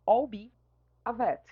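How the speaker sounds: I'll said as one syllable, like aisle; contracted pronunciation. Shown as a demonstration. Teacher shows the class how to say I'll, one syllable. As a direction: glide I'll into be as one smooth sound. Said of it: "aí a gente pronuncia".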